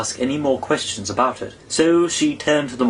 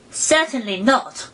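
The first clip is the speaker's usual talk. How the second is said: indignant; 12 semitones higher, slower than usual. A narrator's reading. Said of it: "said Alice indignantly".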